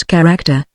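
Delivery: "character" stressed on its second syllable, cha-RAC-ter. A narrator's reading. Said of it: "laying the stress on the second syllable".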